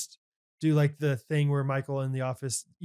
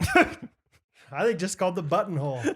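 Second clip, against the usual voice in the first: laughing; 4 semitones higher, slower than usual. Real, not acted. Laughing while reading sewing terms.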